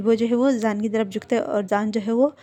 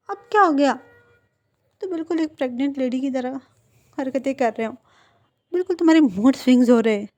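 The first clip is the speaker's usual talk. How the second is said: higher, louder, fast exasperated scolding; exasperated teasing; 3 semitones higher, 5 dB louder, faster than usual. Acted. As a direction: tease him in loud exasperation. (झुंझलाकर ऊँची आवाज़ में चिढ़ाना)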